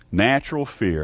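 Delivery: "Natural" stressed ahead of a falling "fear". Real, not acted. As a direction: lean on "Natural", then let "fear" fall. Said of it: "I emphasize that word natural".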